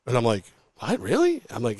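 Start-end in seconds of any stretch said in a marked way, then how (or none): 0.8-1.4 surprised. Retold or imitated. Surprised at co-host offer.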